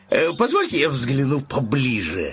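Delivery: slow, low lion purr; lion eyeing the piglet's ears, slow; greedy lion. Acted. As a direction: savour each word like a hungry lion. Lion voiced in story.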